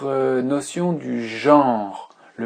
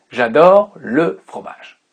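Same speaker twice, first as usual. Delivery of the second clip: "j'adore le fromage" louder and slower, delighted; enthusiastic example; 6 dB louder, slower than usual. Shown as a demonstration. Teacher giving an example, playful delight. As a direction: sell the love of cheese. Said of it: "vous allez dire par exemple".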